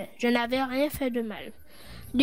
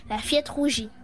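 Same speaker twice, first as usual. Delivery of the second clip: plain reading voice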